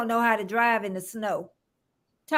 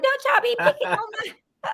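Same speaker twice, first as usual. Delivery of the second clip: imitating a Southern accent, pitched much higher; 10 semitones higher, much faster than usual. Host imitating viewer Red Dirt's Southern accent. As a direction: put on a high Southern twang for her. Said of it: "She got that accent like you".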